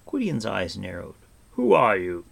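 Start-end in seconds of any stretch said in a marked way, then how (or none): 1.5-2.2 sudden loud challenge; demanding. A narrator's reading. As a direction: demand an answer, loudly. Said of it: "he demanded".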